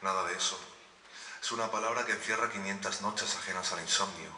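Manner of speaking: poem recital. Acted. Poet dedicates a poem to the Marías present, poem recital. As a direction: recite it as a dedication, pausing between images.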